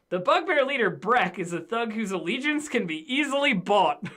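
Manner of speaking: reading aloud. Real, not acted. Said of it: "let me read you the thing".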